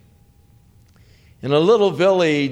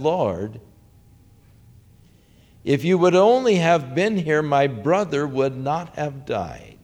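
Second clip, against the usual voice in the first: lightly accusing, slowing on the last words; a mild reproach to Jesus, dragging out brother; 2 semitones higher than usual. Retold or imitated. Martha reproaching Jesus for coming too late, mildly accusing. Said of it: "in sort of an accusing tone".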